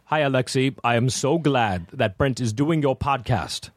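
slow, carefully spaced words; girlfriend impersonation. Acted. Guest coaching the host on his girlfriend's voice, slow impersonation. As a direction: measure it out deliberately, word by word. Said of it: "That's how she talks".

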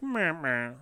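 unimpressed "meh" noises, softly; mock letdown. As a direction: imitate a deflated little fanfare. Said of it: "This had no excitement there".

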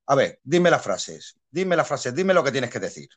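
curt director. Retold or imitated. Director taking actor aside, dry curt order. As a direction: bark out the lines request flatly. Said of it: "así seco".

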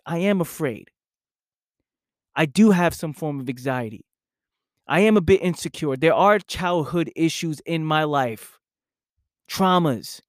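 "I am afraid" with the weight on am; stress on am. Shown as a demonstration. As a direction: lean into am, owning it. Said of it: "Who says this?".

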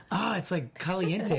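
put-on Hispanic accent. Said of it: "has that perfect".

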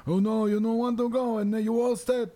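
put-on high, far old electrician voice; grumpy old man. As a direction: play a wheezy old neighbor. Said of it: "Pete, the electrician just came in".

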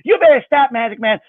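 put-on high warning little-girl voice; a kid outraged at the magician; outraged child. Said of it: "she's so outraged".

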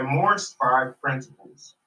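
slowed for a bad line; slow and clear. Real, not acted. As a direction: say it slowly so it gets through. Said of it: "your audio is very choppy".

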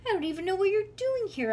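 irritated telling-off; cross scolding. A narrator's reading. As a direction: turn on the visitor, exasperated. Sitter scolds the visiting friend.

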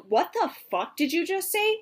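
startled mock anger; mock outraged challenge. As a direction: call it out sharply. Acted confrontation quote.

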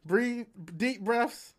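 slow, soothing nurse voice; imitating a calm nurse. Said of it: "they was like".

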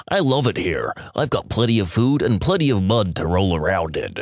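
low-pitched talking pig voice; ventriloquist's pig. Acted. Ventriloquist answers the farmer as the pig, in a put-on piggy voice. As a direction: put on a pig's voice for the joke. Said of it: "seem as though the pig replies".

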